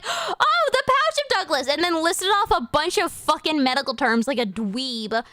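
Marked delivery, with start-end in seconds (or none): 0.0-1.7 much higher gasping thrill of recognition; light up like a nerd who knows this; nerdy excitement. Retold or imitated.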